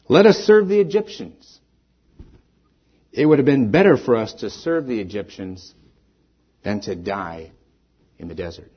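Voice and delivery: mildly dramatized whining and despair; complaining Israelites. Retold or imitated. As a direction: complain bitterly as the grumbling crowd. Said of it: "their response was fear, whining, and despair".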